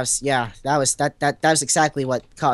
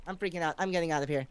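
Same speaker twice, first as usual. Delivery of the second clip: dropped to a mutter; 10 dB quieter, faster than usual. Acted. After the wail he repeats "I'm freaking out" softly to himself. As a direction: let "I'm freaking out" fall away quietly.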